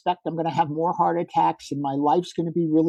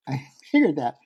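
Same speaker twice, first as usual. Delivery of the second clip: laughing; 4 semitones lower than usual. Retold or imitated.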